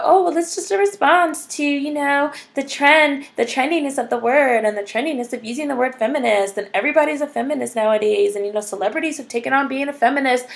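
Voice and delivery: high, quick sing-song parody of her excuse; mocking the writer's defense. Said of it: "talk about".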